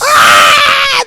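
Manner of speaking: high, drawn-out mock crowd cheer; shouted, stretched-out hype; roaring crowd. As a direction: yell it like a stadium erupting.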